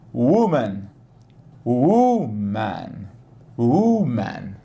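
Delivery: "Woman" with a weak U, then a strong U; careful woman. Shown as a demonstration. Teacher modeling the word for students. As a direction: model "Woman", clear and stressed. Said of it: "começa com um U fraquinho".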